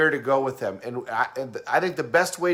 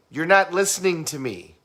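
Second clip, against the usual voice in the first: higher-pitched mock complaint; stressed auditory person; 4 semitones higher than usual. Auditory person complaining to partner, mock stressed. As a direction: protest it, mildly worked up. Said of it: "auditory person is gonna be saying".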